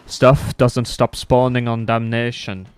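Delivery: slow, condescending imitation; mocking the teammate's slow lecturing tone; smug know-it-all. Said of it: "he goes".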